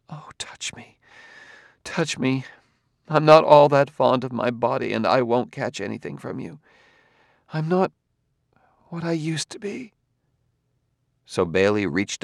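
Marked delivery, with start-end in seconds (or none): 0.1-9.9 starts whispered, then higher and pleading. A narrator's reading. Gladia begs a hesitant Bailey to touch her, pleading.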